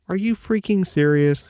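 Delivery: high, incredulous reaction; astonished high-pitched question; retold disbelief. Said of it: "I'm like".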